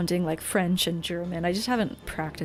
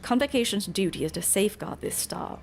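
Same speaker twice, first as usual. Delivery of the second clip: formal British voice of duty; British accent. Acted. Character insisting they pursue Hermes out of duty, British accent. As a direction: state it firmly in a British accent. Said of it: "do a pretty good British accent".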